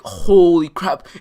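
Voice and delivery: drawn-out, loud exclamation of disbelief; slow, punched mock astonishment; shocked teachers. Imitating teachers coming out to the fight, shocked.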